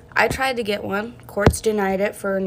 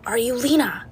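whispered repeat; 4 semitones higher than usual. Retold or imitated. Intruder questioning, whispered repeat.

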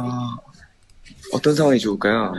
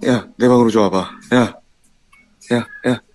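imitating older brother; 2 semitones lower than usual. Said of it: "항상 하는 말이 있어요".

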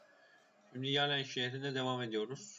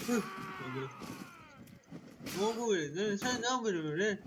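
furious yelling; 7 semitones higher than usual. Real, not acted. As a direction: curse and yell at the brawling men. Raging at fighting NPCs in battle. (öfkeyle bağırma)

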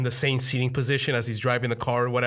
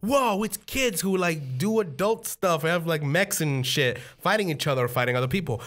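put-on excited kid; 5 semitones higher than usual. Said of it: "I'm like".

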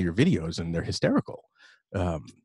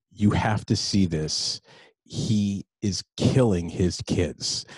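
slow, weighty word-by-word delivery; emphatic retold urging; much slower than usual. Wife urging husband to watch the videos, slow and emphatic. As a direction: space out each word for emphasis. Retelling wife's urgent recommendation.

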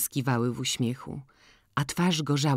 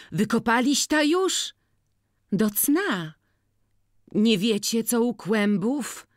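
put-on high, eager questions of an old beggar; old beggar woman; 8 semitones higher, 3 dB louder, slower than usual. A narrator's reading. Agata asking Jagna about home, high and eager. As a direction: lean in, hungry for village news.

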